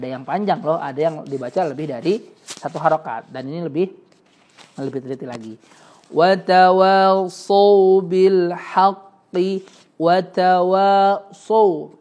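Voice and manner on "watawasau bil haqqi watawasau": watawasau said slowly with a heavy sad sound; slow careful watawasau. Shown as a demonstration. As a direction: stretch watawasau with a thick S. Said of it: "Kayak sad ya".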